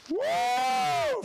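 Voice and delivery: high, loud whoop; big high cheer; excited woo. Real, not acted. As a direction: cheer like at a game. Cheering a viewer's name.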